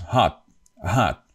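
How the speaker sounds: hot with the T unreleased; dropped final T. Shown as a demonstration. Teacher gives English example, hot with silent T. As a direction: stop hot short without releasing the T. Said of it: "the last T is not".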